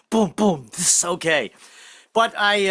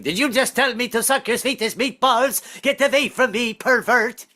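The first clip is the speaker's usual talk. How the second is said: high, indignant offended Swede; 8 semitones higher than usual. Retold or imitated. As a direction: recoil from a rude remark.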